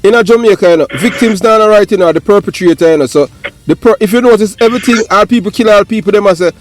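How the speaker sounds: high, loud and fired up; rising into an outraged rant about crime; heated rant. Real, not acted. Ranting to the other guest, high and loud with outrage.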